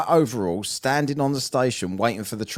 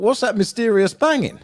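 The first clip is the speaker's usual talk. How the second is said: spooked; 10 semitones higher, 5 dB louder than usual. Retold or imitated. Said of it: "that's what I thought".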